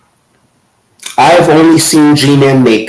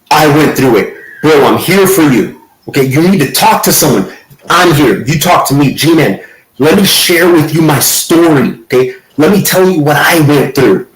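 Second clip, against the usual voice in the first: mock consoling atheists. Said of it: "the response from atheists was".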